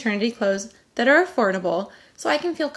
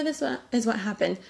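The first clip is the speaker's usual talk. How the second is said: softer, stumbling, unsure of the words; muddled recall; 4 dB quieter than usual. Pretend. Mom with pregnancy brain fumbling the story, softer and unsure. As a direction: trip over it like you forgot. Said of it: "Pregnancy brain is a real thing".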